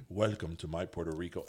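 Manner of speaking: impression of a singer. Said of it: "and he's like".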